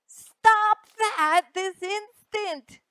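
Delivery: high, slow, firm scolding; angry mother's voice; stern scolding. Acted. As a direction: scold a naughty child, slowly.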